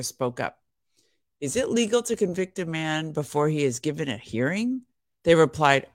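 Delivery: reading the Bible aloud to listeners; measured devotional Bible reading; scripture reading. Acted. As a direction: read the passage steadily, like a devotional reading. Reads the Bible passage aloud.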